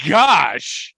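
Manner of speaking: slow, loud amazed oh my gosh; drawn-out, stunned outburst. Real, not acted. Amazed at a revelation.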